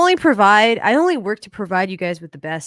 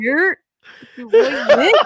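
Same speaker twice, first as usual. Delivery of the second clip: New York accent; 7 semitones higher, 5 dB louder, slower than usual. Shown as a demonstration. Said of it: "he has to say".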